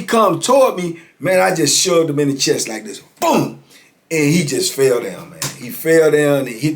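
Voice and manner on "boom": imitated impact boom.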